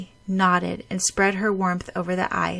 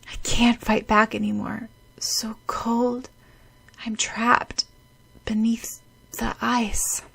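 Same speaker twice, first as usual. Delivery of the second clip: weak, slow, breathless whisper; fading whisper; 4 semitones higher than usual. Acted. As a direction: let the strength drain away. Drowning, giving up.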